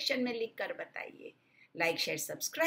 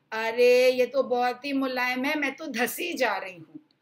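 a burst of surprise, louder on arey; surprised girl; 2 semitones higher, 6 dB louder than usual. Acted. Girl sinks into mama bear's chair, surprised. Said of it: "ऐसा कहकर".

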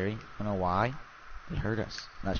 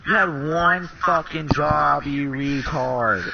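exasperated rant; 5 dB louder, slower than usual. Real, not acted. Furious at teammate's mistake.

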